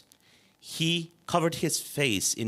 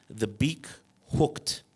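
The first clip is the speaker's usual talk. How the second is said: ordinary delivery, nothing marked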